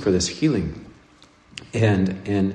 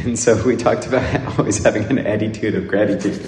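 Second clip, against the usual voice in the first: laughing. Real, not acted. Recalling the funny sermon phrase.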